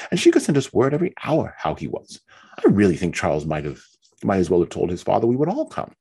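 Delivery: high, complaining voice of a self-pitying wife; fretful Mary. Acted. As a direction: whine it out, feeling hard done by. Mary justifies going out.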